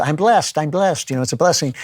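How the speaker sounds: lightly voiced chirpy I'm-so-blessed talk; a hint of sugary mock cheer; mocking happy talk. Mocking Christians who cover despair with happy talk, lightly sugary. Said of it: "happy talk nonsense".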